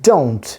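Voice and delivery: "don't" with D, O glide, N and T; careful pronunciation. Shown as a demonstration. Teacher sums up the sounds just listed, careful pronunciation. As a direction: model "don't" in one falling syllable. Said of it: "প্রোনাউন্সিয়েশনটা হলো".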